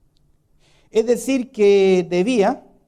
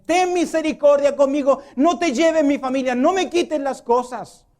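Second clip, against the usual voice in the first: higher-voiced desperate begging; pleading servant; 5 semitones higher than usual. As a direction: plead with your master not to take everything. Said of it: "le pide". (siervo que suplica con voz más aguda)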